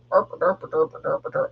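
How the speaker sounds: lightly voiced silly derp noises; mock dopey derp, derp; a hint of a goofy cartoon voice. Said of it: "don't you love when I talk like this".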